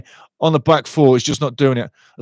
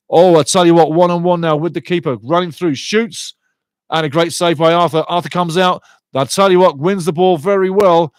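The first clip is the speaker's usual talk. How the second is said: louder, lifted live match call; excited commentary; 2 semitones higher, 4 dB louder than usual. Real, not acted. Commentator calls a one-on-one with the keeper, excited. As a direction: call the goal chance with real urgency.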